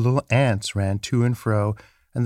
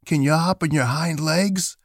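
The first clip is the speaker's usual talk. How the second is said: high storybook rabbit voice; furry rabbit; 6 semitones higher than usual. A narrator's reading. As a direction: challenge him in a high rabbit voice. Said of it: "asked the furry rabbit".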